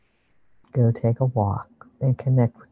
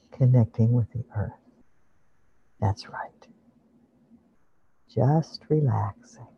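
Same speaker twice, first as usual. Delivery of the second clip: guided meditation. Acted. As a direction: ease them into calm imagery.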